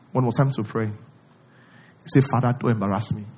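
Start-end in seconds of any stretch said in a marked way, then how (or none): 2.3-3.3 mock plea. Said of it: "Is that what he said".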